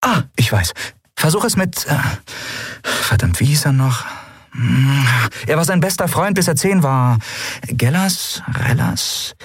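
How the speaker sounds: she's racking her memory, half frustrated; a lightly voiced girl fumbling excitedly; eager searching. A narrator's reading. Lien startled, groping for name.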